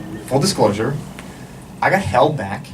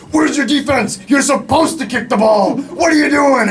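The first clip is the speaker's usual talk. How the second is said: high, exasperated sideline shouting; mom yelling more; 11 semitones higher, 4 dB louder than usual. Acted. Mom at her son's soccer game, high frantic yelling. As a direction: holler at a hopeless young player. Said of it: "cause my mom to yell even more".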